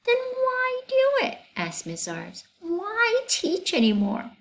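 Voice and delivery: high, plaintive teacher voice; teacher complaining to three men, high and self-pitying; aggrieved teacher. Acted. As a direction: pour out years of grievances. Miss Zarves complains to men.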